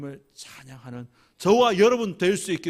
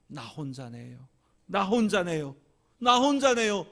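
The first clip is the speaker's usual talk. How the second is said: building from a hush to a loud tearful cry; tearful lonely prayer; 2 semitones higher, 4 dB louder than usual. Retold or imitated. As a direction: let the loneliness swell with each repeat. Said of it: "울면서 하나님께 기도합니다".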